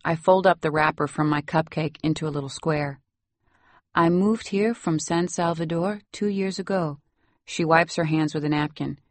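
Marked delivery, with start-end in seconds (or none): 3.9-7.0 put-on lightly Salvadoran-accented English. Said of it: "You have such a nice accent".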